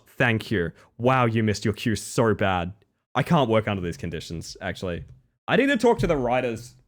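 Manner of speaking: usual speaking voice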